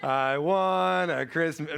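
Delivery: put-on slow, drawn-out kid voice retry; imitating son again. Boy retrying the song title for the nurse, slow. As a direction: try the title again, slowly, like a stuck child. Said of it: "That's not right".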